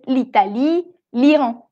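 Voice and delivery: l'Italie run together as one word; linked article. Shown as a demonstration. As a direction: join the l to Italie smoothly. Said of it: "Lees todo junto".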